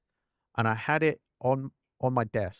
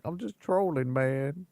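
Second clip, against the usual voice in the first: teasing quote; 5 semitones higher, slower than usual. Retold or imitated. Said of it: "I was like".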